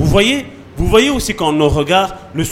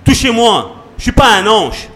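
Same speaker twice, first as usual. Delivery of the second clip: lightly acted protest, building higher; Moses answering back; 4 semitones higher than usual. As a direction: plead your case as a put-upon leader. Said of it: "Moi, j'aurais été Moïse".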